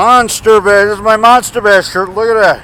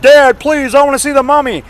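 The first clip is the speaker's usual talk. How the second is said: put-on higher, begging little boy voice; pleading child; 6 semitones higher than usual. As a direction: beg like a five-year-old. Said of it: "down on my hands and knees crying".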